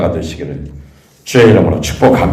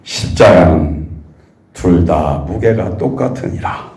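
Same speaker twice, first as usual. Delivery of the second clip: sorrowful Lord; 5 semitones lower, slower than usual. Retold or imitated. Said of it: "굉장히 슬퍼하셨어요".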